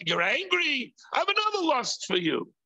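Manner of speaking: tempting heart voice. Retold or imitated. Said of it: "the heart goes and says".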